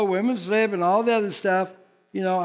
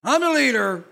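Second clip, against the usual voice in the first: mock bossy wife; 2 semitones higher, 5 dB louder than usual. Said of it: "the woman goes".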